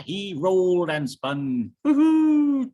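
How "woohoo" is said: high, loud whooping cheer; woohoo. Acted. Bear spins in the water, whooping happily. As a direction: whoop it out with joy.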